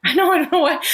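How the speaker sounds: cracking up at a friend's jab; laughing. Real, not acted. Podcast host laughing at her co-host's tech bro jab, laughing through it.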